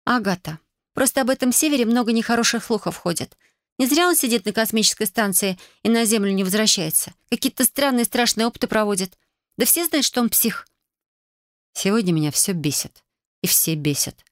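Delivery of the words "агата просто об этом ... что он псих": higher, worried younger sister. Acted. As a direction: voice the fretful kid sister. Narrator voices younger sister.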